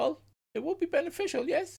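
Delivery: very high, put-on little halfling character voice. Offering a warlock's help against enemies, in character: halfling's voice. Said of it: "she's still speaking in the halfling's voice".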